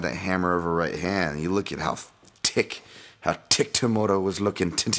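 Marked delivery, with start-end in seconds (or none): 2.4-5.0 slipping into a bad Irish accent; light, half-slipped Irish lilt. Real, not acted. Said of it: "why am I doing it with a bad Irish accent there".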